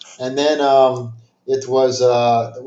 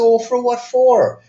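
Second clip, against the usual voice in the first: pitched way up and slow, in disbelief; incredulous; 11 semitones higher, 4 dB louder, slower than usual. Retold or imitated. Man asking scammer why he'd be deported, incredulous and high. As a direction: drag it out, baffled.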